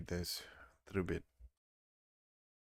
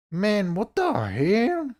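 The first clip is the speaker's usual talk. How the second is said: frustrated whine; 14 semitones higher, 13 dB louder, slower than usual. Real, not acted. Whining at the broken model.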